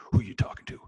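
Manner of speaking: shouted whisper of a taunting voice; mock yell. Movie prisoner shouting at himself in the hole. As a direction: yell it like a man losing his mind. Retelling Hurricane hole scene.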